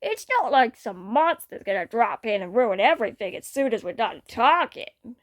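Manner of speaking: talking through a mouthful of candy; mouth full. Acted. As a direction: say it round a mouthful of sweets. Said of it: "with a mouthful of candies".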